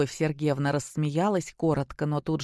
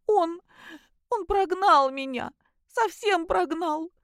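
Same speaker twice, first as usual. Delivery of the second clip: much higher, slow broken sobbing; sobbing out words; 12 semitones higher, slower than usual. A narrator's reading. Daughter telling her parents she was thrown out, sobbing. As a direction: gasp it out between sobs. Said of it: "выдохнула между рыданиями".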